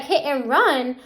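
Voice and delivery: mildly incredulous echo; retold disbelief. Mom challenging the officers' charge, retold disbelief. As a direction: throw the charge back as a doubting question.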